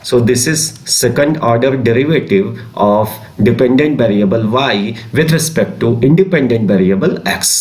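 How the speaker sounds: slow, spaced-out dictation of a definition. Acted. Teacher dictating a definition to class twelve students, slow and spaced. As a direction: read it slowly so students can write.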